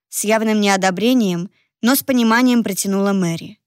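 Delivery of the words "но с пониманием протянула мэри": ordinary delivery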